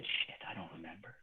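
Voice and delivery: barely audible, muttered admission; sheepish mumble. Retold or imitated. Client caught out, muttering his admission very softly. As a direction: mumble it like you've got no answer. Client answers the hard question.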